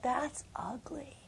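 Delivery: hushed unvoiced awe; whispering in awe of the vision; awed whisper. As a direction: breathe it in a whisper. Her thought whispered.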